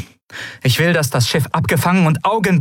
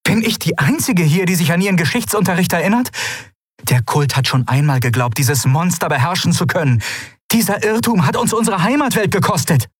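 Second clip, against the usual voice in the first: higher, sharp, indignant refusal; indignant ruler; 8 semitones higher than usual. A narrator's reading. Ruler rebukes the old minister, indignant. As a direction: slap the idea down.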